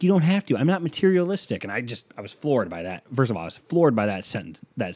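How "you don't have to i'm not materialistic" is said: imitating girlfriend. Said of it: "She's like".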